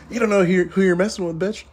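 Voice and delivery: high, loud mock triumph; gloating taunt. Taunting his ex-wife after winning the argument, high gloating crow. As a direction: crow it like you just won.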